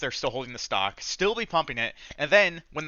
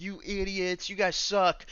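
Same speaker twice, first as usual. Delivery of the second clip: a higher, put-on jeering voice; mocking sneering pumper; 6 semitones higher, slower than usual. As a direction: jeer at the followers like a brat. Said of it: "They would just be like".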